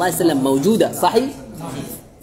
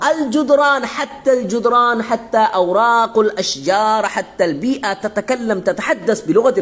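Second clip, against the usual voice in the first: rising excitement; 6 semitones higher, 3 dB louder than usual. Real, not acted. Teacher builds rousing claim.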